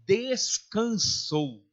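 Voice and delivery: "descansou" very slow, each syllable set apart; emphatic, drawn-out "descansou"; stress on descansou. Shown as a demonstration. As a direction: spell out "descansou" slowly and firmly. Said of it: "A palavra não é morreu".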